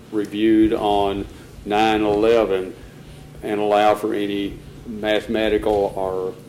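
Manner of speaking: slow, word-by-word motion dictation; dictating. Shown as a demonstration. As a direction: spell the motion out slowly for the clerk. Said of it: "then we would have an item that would say".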